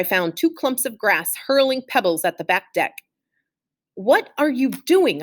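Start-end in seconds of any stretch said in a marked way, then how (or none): 3.9-5.2 yelled. A narrator's reading. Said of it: "I yelled".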